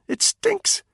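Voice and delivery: worried soldier urging his friend; Spud, urgent. A narrator's reading. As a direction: push him to see sense, pressing. Spud disgusted.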